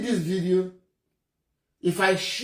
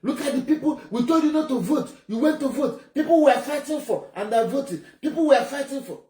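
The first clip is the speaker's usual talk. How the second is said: raised, higher mock scolding through laughter; Gentle shouting at the crowd, played high with laughter; retold screaming; 5 semitones higher than usual. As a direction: imitate the gunman yelling at the people, half laughing. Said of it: "Gentle was screaming at them".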